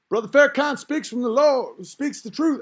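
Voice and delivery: high, fervent follower voice; hammed-up follower praise. Imitating a follower praising Farrakhan, high and fervent. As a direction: gush like a devoted congregant.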